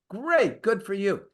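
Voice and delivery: a mocking high Great, good for you; sarcastic brush-off of the raise. Real, not acted. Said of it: "sarcastic reply".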